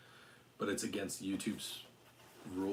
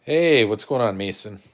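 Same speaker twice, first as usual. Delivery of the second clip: excited dog greeting; 16 dB louder, slower than usual. Real, not acted. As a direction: gush over the stinky puppy. Greeting the dogs again.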